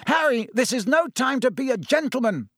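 high, urgent roar at a player. A narrator's reading. Wood urging Harry on mid-match, roaring. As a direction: roar it out, pitched well up. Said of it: "Wood roared".

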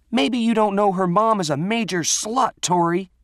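high, loud, taunting yell; angry shouting. Acted. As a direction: hurl an insult mid-fight at the top of your pitch. Renee shouts insult mid-fight.

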